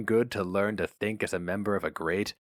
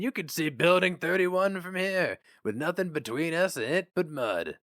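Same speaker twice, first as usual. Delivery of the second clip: lightly voiced old man, a bit higher; a friendly old worker rambling to a newcomer; chatty old-timer; 4 semitones higher than usual.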